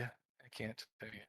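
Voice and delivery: low, quiet hissing lizard; hissing reptile growl. Pretend. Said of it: "Puts in lizard voice".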